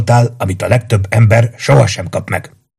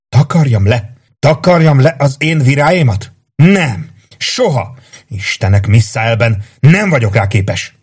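anguished outburst; 5 semitones higher than usual. Acted. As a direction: rage against losing her. Gyászoló férfi tiltakozik. (hangos, fájdalmas tiltakozás)

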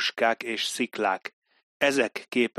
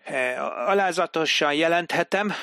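higher, hesitant clerk voice repeating the dictation; clerk reading aloud; 6 semitones higher than usual. Acted. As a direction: echo the words as you write them. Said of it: "mondta hangosan".

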